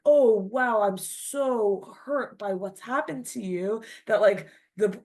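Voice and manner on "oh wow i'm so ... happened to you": gushing, overdone concern with a louder start; mock fake sympathy. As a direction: play the insincere sympathiser, laying it on thick. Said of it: "almost like fake empathy".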